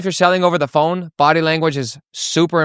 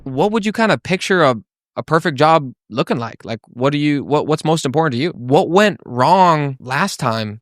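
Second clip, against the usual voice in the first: lightly puzzled, open probing questions; curious tonality. Shown as a demonstration. Salesman getting a prospect to open up, curious. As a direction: draw them out with curiosity. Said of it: "curious or confused tonality".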